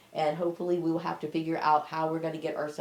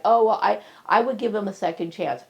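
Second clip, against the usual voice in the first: higher, mocking quoted voice; imitating forgiving people; 4 semitones higher, 6 dB louder than usual. Speaker mimicking people who would forgive, higher mock voice. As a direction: lift the pitch to mimic them. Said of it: "They would be like".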